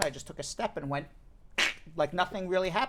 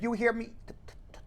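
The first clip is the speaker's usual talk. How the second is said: choppy stuttered restart on t; stuttering; 7 dB quieter, much faster than usual. Shown as a demonstration. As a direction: break up the word with a stutter. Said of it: "talking like this".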